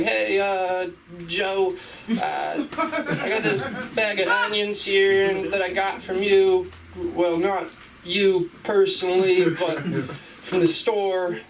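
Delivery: high, sweet, polite customer voice; overly polite customer. Acted. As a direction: ask nicely, like a dressed-up customer.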